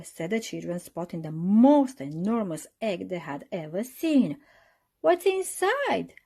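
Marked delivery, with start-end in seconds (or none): 5.0-6.1 high, slow gasp of wonder. A narrator's reading. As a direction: ask it breathless with curiosity. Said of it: "Peppa gasped".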